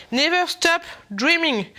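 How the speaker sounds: slow English read with a heavy French accent. Shown as a demonstration. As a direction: read "Never Stop Dreaming" slowly in a thick French accent. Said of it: "Mon accent est magnifique".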